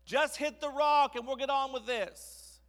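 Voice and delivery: high, loud, drawn-out demand; loud, slow, exasperated call; impatient shout. Acted. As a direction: shout it like a fed-up crowd. Crowd urges Moses to hit rock.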